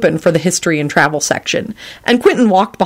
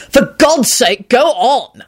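high, urgent outburst; exasperated shout; 7 semitones higher, much slower than usual. A narrator's reading. Quentin pressing Lupin for the story, exasperated shout. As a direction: urge them on in exasperation. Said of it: "he shouted".

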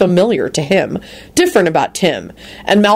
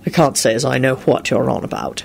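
lofty; 4 semitones lower than usual. A narrator's reading. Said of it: "he informed her loftily".

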